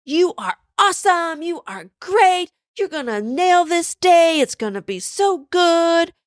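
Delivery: put-on high, childlike pep talk; little girl voice. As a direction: cheer yourself on like a toddler. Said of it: "giving herself a pep talk".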